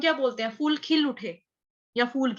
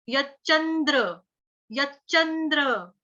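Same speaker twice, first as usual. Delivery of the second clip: slow syllables; slower than usual. Shown as a demonstration. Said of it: "तो क्या बोलेंगे".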